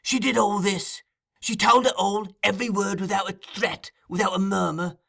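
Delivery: high, relentless, incensed tirade; half mad with fury. A narrator's reading. Fagin making Noah confirm the betrayal, high and furious. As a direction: hammer through the charges in a high voice. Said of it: "half mad with fury".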